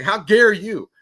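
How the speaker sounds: high, loud imitated outrage; hammed-up affronted stranger; mock indignation. New Yorker answering a prank caller, mock indignant. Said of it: "the guy was like".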